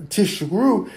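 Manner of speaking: "Tishkru" said slowly with sh for z; slow mispronounced "Tishkru"; wrong sh sound. Shown as a demonstration. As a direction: draw out the sh in "Tishkru". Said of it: "when you say the word".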